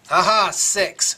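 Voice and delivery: excited cheer. Real, not acted. Dice roll comes up six.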